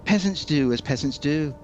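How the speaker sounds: lightly voiced haughty prince, quick; a hint of a snooty royal brushing it off; foppish prince. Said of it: "saying that".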